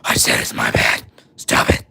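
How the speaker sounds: voiceless, rasped outburst; mock harsh whisper. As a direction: rasp it out without voice, jokingly overdone.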